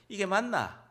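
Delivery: Gyeongsang-accented question; Gyeongsang dialect. Shown as a demonstration. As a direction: say it with a Gyeongsang lilt. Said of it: "경상도 사투리로 하면".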